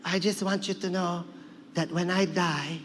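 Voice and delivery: lightly voiced grandmother, slowing down; a hint of a solemn grandmother; Lola Tinay. Grandmother tells grandson about her death, lightly acted solemnity. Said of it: "and she'd be like".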